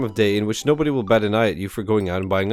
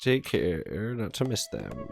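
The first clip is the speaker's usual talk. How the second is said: mock welcome message. Amanda's fake Dad Book welcome.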